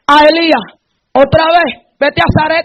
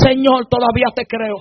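soft, lower-pitched plea of faith; hushed prayer; 3 semitones lower, 8 dB quieter than usual. Acted. Believer with every door closed speaking to the Lord, hushed prayer. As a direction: drop right down as if praying privately.

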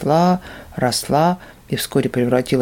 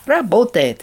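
higher, excited cry; delighted; 8 semitones higher, slower than usual. Acted. Demon tells the monk, excited and high. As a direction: crow over the working trap.

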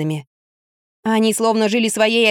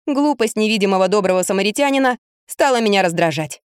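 plain reading voice

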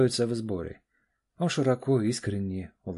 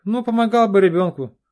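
indignant; 12 semitones higher, 13 dB louder than usual. Acted. Friend scolds Oleg about wife.

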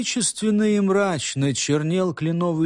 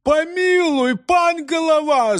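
higher, louder, imploring cry; frightened pleading; 11 semitones higher, 4 dB louder, slower than usual. A narrator's reading. Constables bowing and begging the head, frightened pleading. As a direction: beg for mercy on your knees. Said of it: "закричали некоторые, кланяясь в ноги".

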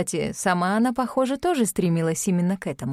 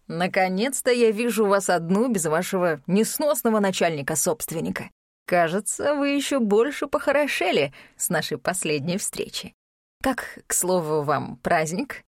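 cold rasping evil emperor. Acted. Emperor flirts with Lea.

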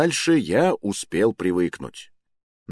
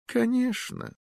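put-on old magister; 4 dB quieter, slower than usual. Magister confirming.

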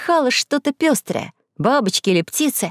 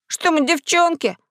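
indignant; 8 semitones higher than usual. Acted. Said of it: "возмутился Максим".

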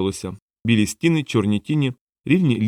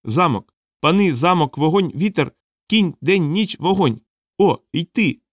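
high, piping sing-out of single words; little brown creature; 6 semitones higher, slower than usual. A narrator's reading. Brown creature listing words to Rokanon, high piping voice. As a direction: chirp each word like a tiny excited creature. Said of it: "сказало коричневе створіння".

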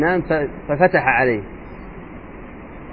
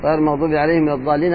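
quick recitation demo; faster than usual. Shown as a demonstration. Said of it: "لو قرأ".

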